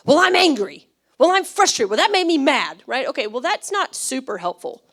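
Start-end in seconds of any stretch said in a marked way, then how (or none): 0.1-2.8 blunt emotional quote. Retold or imitated. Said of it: "we tend to go to just very basic things".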